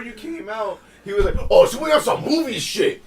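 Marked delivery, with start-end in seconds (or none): 1.5-3.0 higher, a touch louder mocking voice; mock old man. Retelling the customer's sneer, lightly mocked.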